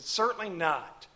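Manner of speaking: slow, deliberate CERTAINLY NOT; "Certainly not" weighted on both words; emphatic. Retold or imitated. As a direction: say "Certainly not" slowly as a firm denial. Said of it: "that's very emphatic".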